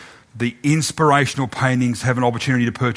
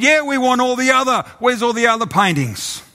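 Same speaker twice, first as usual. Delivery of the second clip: heckling call; 11 semitones higher than usual. Acted. Another bidder calls out for the famous paintings. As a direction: demand the other paintings.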